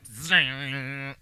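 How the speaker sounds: drawn-out buzzing zing; imitated electric zap. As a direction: imitate a long electric sizzle. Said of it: "we just hear this".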